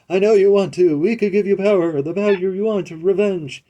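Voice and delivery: high, loud, seductive villain voice; voiced villain. Gamer reads the tempting villains' cutscene lines aloud, in a high, loud, seductive voice. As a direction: purr the offer of power and revenge.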